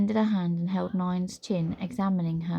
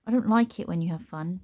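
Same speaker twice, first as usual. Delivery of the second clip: sourly; 4 dB louder than usual. Acted. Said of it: "Nine said sourly".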